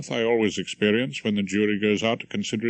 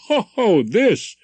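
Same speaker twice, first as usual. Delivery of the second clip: sudden realization; 10 semitones higher, 6 dB louder than usual. Acted. Barrister realizing it's his wig.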